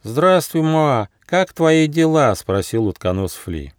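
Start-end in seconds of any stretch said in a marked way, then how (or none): 0.0-2.3 high-pitched friendly animal voice; storybook platypus, pitched up; platypus greeting. A narrator's reading. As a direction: greet the koala in a high character voice. Platypus Fli greets the koala.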